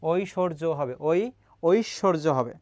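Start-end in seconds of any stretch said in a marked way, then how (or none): 0.0-0.6 "ঐশ্বর্য" as oi-shor-jo, with the b silent; demonstrated pronunciation. Shown as a demonstration. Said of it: "সেখানে বর্গীয় জ হবে". 1.0-2.3 "ওই" alone, pause, then "ঐশ্বর্য" as oishshorjo; demonstrated pronunciation. Shown as a demonstration. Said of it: "সেখানে বর্গীয় জ হবে".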